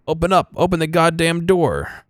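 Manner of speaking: banging on the door, shouting in terror; panicked shout. Acted. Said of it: "is in full-on panic".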